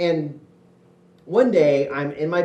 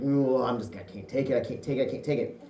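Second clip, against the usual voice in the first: exasperated; 3 semitones lower, 6 dB quieter than usual. Retold or imitated. Frustrated at sister.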